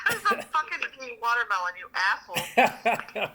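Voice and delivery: laughing through the words, then dragging out the insult slowly; gülerek, yarı şaka yarı hakaret. Real, not acted. Teasing friend, laughing at joke.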